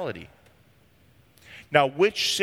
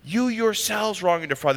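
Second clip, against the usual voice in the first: each word pressed, the phrase raised and weighted; emphatic; 5 semitones higher than usual. Shown as a demonstration. Pastor reading Paul's rebuke to the congregation, emphatic and weighted. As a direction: lean hard on you yourselves. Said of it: "It's emphatic".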